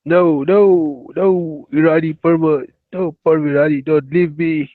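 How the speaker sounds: loud plea not to be left; loud pleading. Real, not acted. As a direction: call after him, don't go. Begging stranger not to leave.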